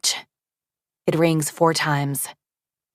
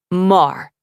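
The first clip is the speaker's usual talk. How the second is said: flat greeting; 4 dB louder than usual. A narrator's reading. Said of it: "He says it like a greeting, like a fact".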